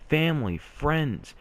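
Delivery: pitched high, urgent and insistent; impassioned plea. Real, not acted. Vlogger begging sad viewers not to self-harm, impassioned plea.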